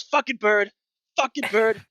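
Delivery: very high, loud squawking repeat; the bird mocks Crix by repeating his curse; parrot mimicry. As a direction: screech it back like a parrot copying a curse. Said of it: "he looks up at you and he goes".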